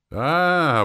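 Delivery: loud, high "А" of realisation; a sharp high loud exclamation; sudden exclaim. A narrator's reading. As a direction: blurt it out as it dawns on you. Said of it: "воскликнул я".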